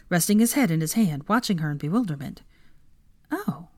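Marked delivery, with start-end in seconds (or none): 3.3-3.7 soft, breathless and high; startled, breathless little oh. A narrator's reading. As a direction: catch your breath on it. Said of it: "she said, almost breathlessly".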